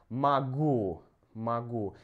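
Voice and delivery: "Могу" as "ma-GOO", with an "a" in the first syllable; "могу" pronounced "ma-GOO"; unstressed O as A. Shown as a demonstration. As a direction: say "могу" with A, stressed on the last vowel. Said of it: "here we have A sound".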